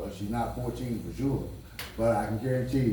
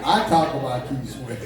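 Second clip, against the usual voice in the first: laughing; 2 semitones higher, 6 dB louder than usual. Real, not acted. Laughing defence of a singer.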